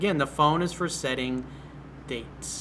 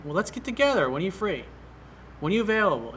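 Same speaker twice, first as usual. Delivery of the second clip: decisive invite; 4 semitones higher, faster than usual. Shown as a demonstration. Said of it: "just say".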